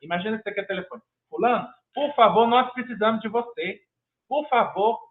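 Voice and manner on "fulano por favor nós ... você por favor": earnest plea. Shown as a demonstration. Teacher on the phone begging a student to return, pleading. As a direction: coax the student back warmly, urging. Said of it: "olha só a diferença".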